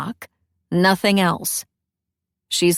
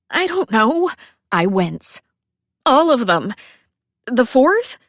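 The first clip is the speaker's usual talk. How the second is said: whimper; 3 semitones higher, 4 dB louder than usual. Acted. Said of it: "Is that a whimper?".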